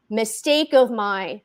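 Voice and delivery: plain reading voice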